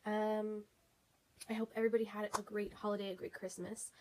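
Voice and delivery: stuffy nose from a cold; congested voice. Real, not acted. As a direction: talk through a blocked nose. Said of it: "I'm congested".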